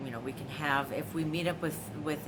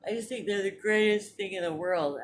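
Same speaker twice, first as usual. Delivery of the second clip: gushing; 5 semitones higher, 5 dB louder than usual. Real, not acted. Gushing over glass mugs.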